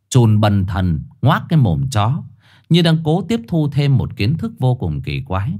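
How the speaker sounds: ordinary delivery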